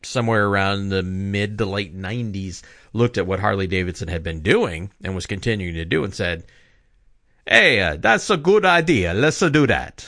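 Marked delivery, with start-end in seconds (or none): 7.5-10.1 absolutely horrible fake Italian accent, loud and high. Imagining what Ducati said about Harley Davidson's idea, in a bad Italian accent. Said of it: "that's an absolutely horrible Italian accent".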